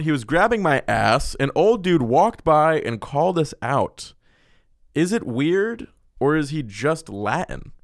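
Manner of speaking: slow, casual retelling of the letter; relaxed reread. Shown as a demonstration. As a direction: read it again like a person, not an anchor. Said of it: "I said that like a fucking news reporter".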